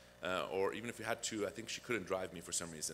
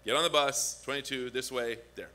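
rattled-off recital; 3 semitones higher, 6 dB louder than usual. Retold or imitated. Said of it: "I repeat it again".

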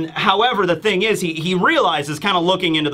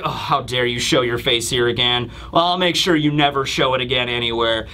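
lower, controlled threat; stern Kuma; 6 semitones lower than usual. Retold or imitated. Hero warning the returning tyrant, low and stern. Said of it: "And Kuma's like".

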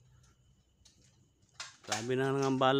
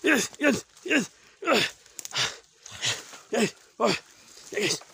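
high, loud ritual cry; shouted incantation; 12 semitones higher, 6 dB louder than usual. Acted. Exorcist shouting a spell at the aswang. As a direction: hurl the spell at it.

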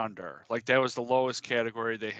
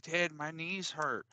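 slow, slightly higher mock complaint; mock complaining kid; 4 semitones higher, 4 dB quieter, slower than usual. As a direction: lightly imitate an aching kid. Daughter complaining to dad, retold.

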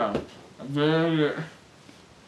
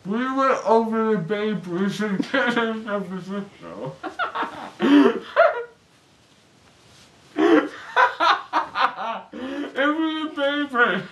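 giggling; 2 semitones higher than usual. Real, not acted. Loopy patient laughing.

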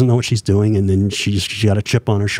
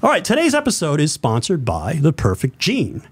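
radio voice; 4 semitones higher than usual. Shown as a demonstration. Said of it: "I do my radio voice".

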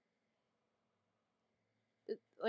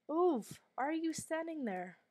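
sudden higher, louder yell; frustrated shout; 8 semitones higher, 5 dB louder than usual. Real, not acted. Player yells at stuck game character, frustrated shout. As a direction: bark at the character to get out of the way.

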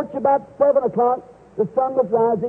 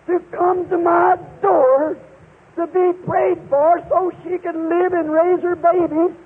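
earnest prayer; 2 semitones higher than usual. Retold or imitated. Preacher praying over the dying possum, earnest and pleading. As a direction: beg the Father's forgiveness, humbly.

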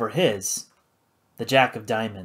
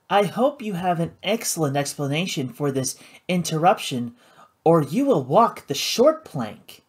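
deliberately calm; 3 semitones higher than usual. Acted. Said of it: "in a deliberately calm tone".

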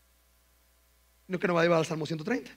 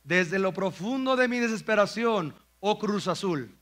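mock fan plea; 2 semitones higher, slower than usual. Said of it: "la frase dice algo así".

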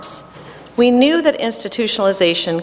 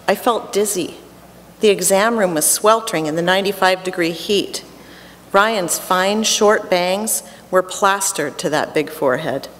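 ordinary delivery

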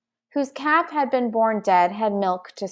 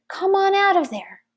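much higher, voiced stand-in for a whisper; mild coaxing; 10 semitones higher than usual. A narrator's reading. Boy calls dragonling out of the pouch, mildly coaxing. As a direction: gently lure a hiding creature out. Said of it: "he whispered".

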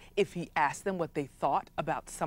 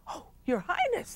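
courtiers fussing; 12 semitones higher, 5 dB quieter than usual. Acted. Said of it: "they said".

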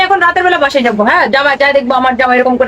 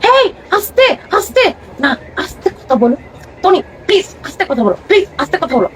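husband hushing. Retold or imitated. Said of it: "আর আমাকে বলবে".

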